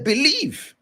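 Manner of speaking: Jesus commanding. Retold or imitated. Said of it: "He said".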